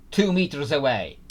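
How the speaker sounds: loud, delighted call; excited exclamation. Real, not acted. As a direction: call out a great result. Delighted at a very close guess.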